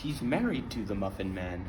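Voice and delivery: deep voice. Acted. Retake of scene line.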